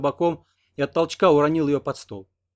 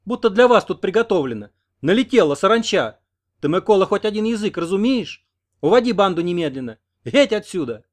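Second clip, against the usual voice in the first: angry; 7 semitones higher, 8 dB louder than usual. A narrator's reading. Oksana chases gang out.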